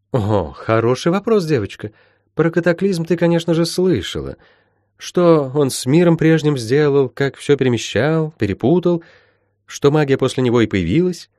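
lightly voiced mentor, lilting upward; explaining healer. Healer asking Molly about the cataclysm, instructive. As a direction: explain patiently, lightly in character.

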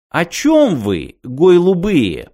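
drawn-out, high-pitched put-on accent; feigned mocking accent. A narrator's reading. Lad taunts the travellers on the couch, feigned mocking accent. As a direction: mangle the words slowly in a put-on accent. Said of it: "теряя наигранный акцент и забывая коверкать слова".

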